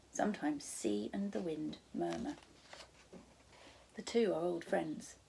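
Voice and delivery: soft reassuring whisper; gentle whispered comfort to a scared girl; soothing whisper. Acted. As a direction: hush her fear gently. Charles soothing frightened Sophie.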